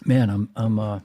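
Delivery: slightly hoarse, tired voice; a voice that is going hoarse. Real, not acted. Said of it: "already losing my voice".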